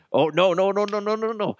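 loud, high, rapid string of no's; excited no no no. Real, not acted. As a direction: burst out as the idea clicks. Excited realization, loud calling out.

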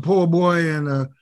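hammed-up Louisiana drawl; put-on New Orleans accent; mock Southern drawl. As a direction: play a coach laying on fake Southern charm. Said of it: "when did you start talking like that".

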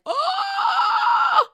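high, loud shocked oh with a laugh; shocked gasp. Retold or imitated. Giselle hearing the proposal rumor, shrieking in shock. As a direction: squeal it out in disbelief. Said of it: "So then Giselle's like".

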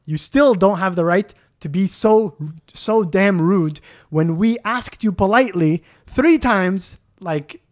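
mildly heated, emphatic protest. Retold or imitated. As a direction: argue the point with rising indignation. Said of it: "now I started to raise my voice".

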